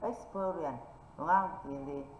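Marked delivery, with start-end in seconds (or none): 0.0-0.8 "Experience" stressed on its second syllable. Shown as a demonstration. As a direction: model "Experience" as ex-PE-rience. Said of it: "tính từ thứ ba từ cuối trở lên mới nhận trọng âm".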